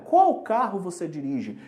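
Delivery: ordinary talk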